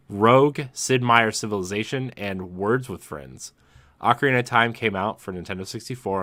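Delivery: podcast host reading a headline story; news read. Real, not acted. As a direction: read out the report in a measured presenter's voice.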